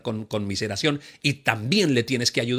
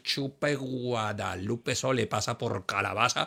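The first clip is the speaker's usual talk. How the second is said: gloating; 3 semitones lower, 6 dB quieter, slower than usual. Retold or imitated. Mocking gloating quote.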